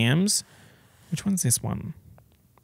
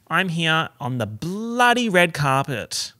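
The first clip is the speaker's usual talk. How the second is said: slow, upbeat red carpet host with "bloody" stressed; presenter voice; 4 semitones higher, slower than usual. Pretend. Host on the red carpet, a mock presenter intro. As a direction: play the host slipping in "bloody". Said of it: "careful not to say bloody red carpet".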